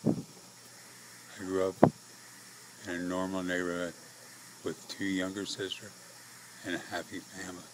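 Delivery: breathless, halting, airy words; struggling for breath between phrases; short of breath. Real, not acted. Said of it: "I'm short of breath".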